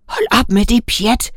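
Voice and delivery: a firm order to stop; commanding. A narrator's reading. Elder angel ordering the young one to stop, commanding. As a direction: snap her out of it with authority. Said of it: "kommanderede den ældre".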